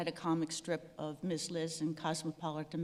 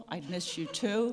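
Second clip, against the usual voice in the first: laughing; 4 dB louder than usual. Real, not acted. Reading her joke card aloud.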